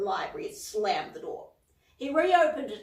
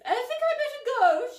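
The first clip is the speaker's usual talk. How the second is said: high, loud call across the house; 7 dB louder than usual. A narrator's reading. Miss Polwarth calling to Cauldron, loud call. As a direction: call it from the entrance. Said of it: "she called".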